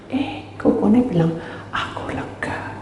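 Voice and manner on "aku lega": slow, much softer, breathy relief; the brother after vomiting, slow and hushed; weak relieved sigh. Retold or imitated. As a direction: let it out slowly like a spent man.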